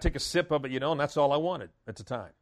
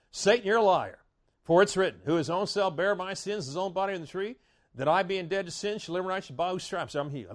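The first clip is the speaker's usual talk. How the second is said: defiant declaration. Shown as a demonstration. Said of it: "it's just good to start saying".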